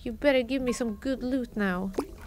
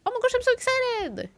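high, quick gushing squeal; excited voice; 9 semitones higher, faster than usual. Shown as a demonstration. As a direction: gush it out, thrilled. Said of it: "Some days it's like".

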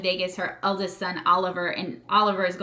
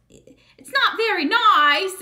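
high, slow, over-the-top Southern belle; exaggerated Southern accent, high and slow; 10 semitones higher, 5 dB louder, much slower than usual. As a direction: drawl it like a prim Southern lady. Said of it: "she does, like, this Southern accent".

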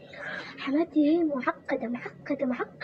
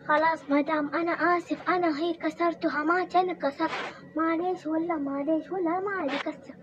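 apologetic; 5 semitones higher than usual. Acted. Apologizing to the mother-in-law.

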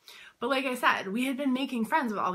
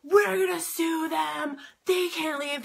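mocking the owners; 9 semitones higher, 3 dB louder, slower than usual. Owners threatening after police intervene.

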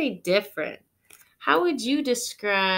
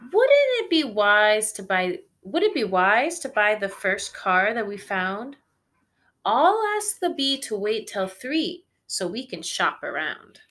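frowning Holly; 6 dB louder than usual. Acted. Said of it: "only frowned".

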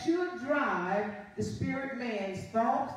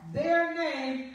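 "Their" picked out firmly; stress on THEIR; 3 semitones higher than usual. Shown as a demonstration. Preacher highlighting a word in Genesis, stressing "Their". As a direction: lean on the first word, "Their". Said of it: "Highlight that word there".

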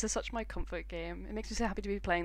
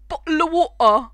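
louder yelling of the same line; mock heroic shout about water; excited shout; 8 semitones higher, 14 dB louder than usual. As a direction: yell it like a rallying cry.

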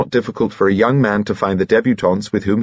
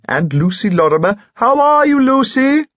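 high squeaky greeting, building louder; delighted; 4 dB louder than usual. A narrator's reading. Lord greets an eccentric old friend, delighted and squeaky. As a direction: climb into a loud, delighted falsetto hail. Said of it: "he said delightedly".

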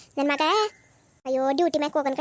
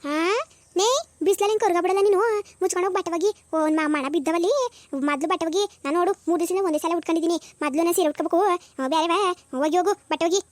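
scolding mother-in-law; 3 semitones higher than usual. Acted. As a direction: nag her to go wash the clothes.

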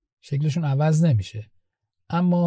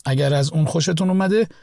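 fast, formal channel sign-off; scripted outro read; much faster than usual. Acted. Host thanking viewers and asking them to subscribe, brisk scripted read.

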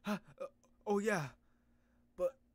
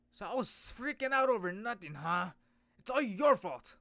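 loud, high accusing shout; blaming outburst; 4 semitones higher, 10 dB louder than usual. Acted. Character blaming his partner for the scare, loud and accusing. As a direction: pin it all on him. Character blames the other angrily.

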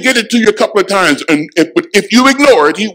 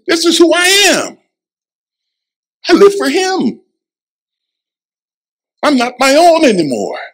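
rising declaration; 10 semitones higher than usual. Acted. Climactic declaration.

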